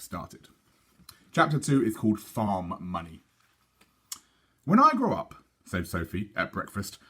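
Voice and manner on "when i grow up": put-on lightly raised girlish voice; a hint of an eager little girl. Reader voicing Sophie at breakfast, lightly girlish.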